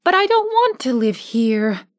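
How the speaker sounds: put-on little girl's protest; mild plea from a homesick girl; Dorothy crying out. Dorothy protests to her friends she wants home. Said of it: "cried Dorothy".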